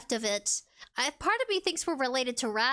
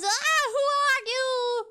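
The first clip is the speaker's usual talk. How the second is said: high, slow startled question; startled who are you; 12 semitones higher, 5 dB louder, slower than usual. Real, not acted. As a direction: jump at a sudden visitor. Surprised at someone on stream.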